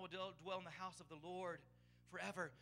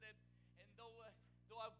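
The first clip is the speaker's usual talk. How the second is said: mild broken-down recitation; 6 dB quieter than usual. Retold or imitated. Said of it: "he would break down".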